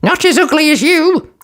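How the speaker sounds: hissed retort. Acted. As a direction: snipe back nastily. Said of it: "hissed her sister".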